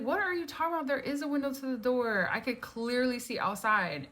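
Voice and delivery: high-pitched exasperated protest; frustrated. Retold or imitated.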